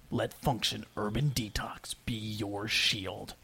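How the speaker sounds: slow dramatic whisper; hushed trailer whisper for the closing slogan. Acted. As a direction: breathe the tagline out slow and secret.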